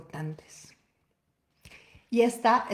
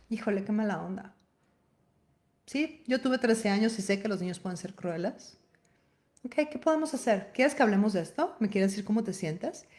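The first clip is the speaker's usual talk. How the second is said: tender mother. Retold or imitated. Mother gently comforting her sad thirteen-year-old daughter. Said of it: "desde el amor, desde el honor".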